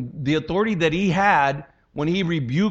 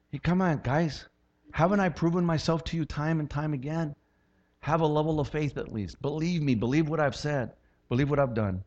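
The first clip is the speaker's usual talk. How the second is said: soft reproach; 5 dB quieter than usual. Retold or imitated. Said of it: "he can make the same accusation".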